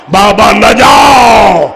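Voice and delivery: a daughter crying out to her father not to go; crying plea. Acted. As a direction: stretch out the word جاؤ as a wailing plea. Child's plea rises to cry.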